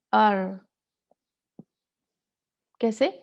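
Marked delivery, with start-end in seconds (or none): 0.1-0.6 अर with a loud strong trill; loud rolled r. Shown as a demonstration. Teacher repeating the wrong loud trill. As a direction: roll it forcefully. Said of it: "ये ऐसे नहीं है".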